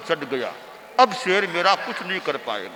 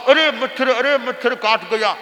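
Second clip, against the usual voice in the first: mild mock fussy yelp; mimicking the fuss; 5 semitones higher than usual. Disciple lightly mocks the guru's mosquito fuss. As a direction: lightly imitate the guru's fussing. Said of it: "इतना ऐसे करने लग गए".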